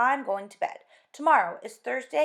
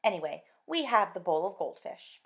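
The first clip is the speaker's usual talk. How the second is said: louder, higher nagging wife; exasperated scolding; 4 semitones higher, 10 dB louder than usual. Acted. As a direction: scold him, fed up with pets. Wife scolds about pets.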